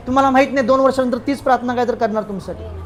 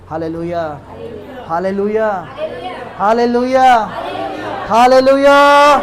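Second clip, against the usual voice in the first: shouted hallelujah; 4 dB louder, much slower than usual. Shown as a demonstration. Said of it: "त्या दुष्टात्म्याला ओरडायचं".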